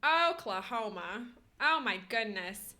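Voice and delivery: hammed-up Midwest American accent; exaggerated Midwest vowels. Shown as a demonstration. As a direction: play a chirpy Midwesterner with stretched vowels. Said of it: "Midwest American accent is so funny to me".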